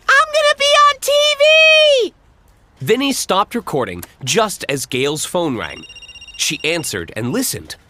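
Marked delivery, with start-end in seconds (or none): 0.1-2.1 put-on much higher, louder thrilled kid; excited shout. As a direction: shout it out running off. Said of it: "the boy yelled as he ran off".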